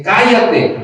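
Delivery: emphatic exclamation. Retold or imitated. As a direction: read it with its exclamation marks. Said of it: "de admiración ahí".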